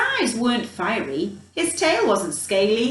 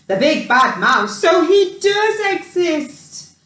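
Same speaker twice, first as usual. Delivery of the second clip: put-on shocked child; 5 semitones higher, 7 dB louder than usual. A narrator's reading. Child seeing the shadow, frightened. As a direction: gasp it out in dread. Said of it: "clenched her fist".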